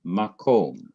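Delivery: "Makom" accented on its last syllable, KOM; final-syllable stress. Shown as a demonstration. Teacher repeating the spelled-out word for students, "Makom" stressed on KOM. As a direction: put the weight on KOM in "Makom". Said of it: "It is also the last syllable".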